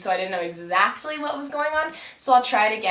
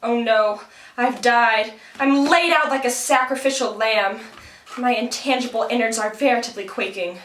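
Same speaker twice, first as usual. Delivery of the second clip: Karagos puppet voice. Acted. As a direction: declaim like a wounded puppet hero. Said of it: "here's Karagos".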